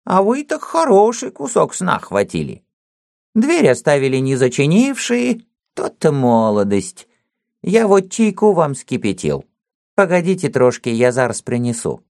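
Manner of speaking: put-on high, mumbling old watchman; old man voice. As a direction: talk like a toothless old servant.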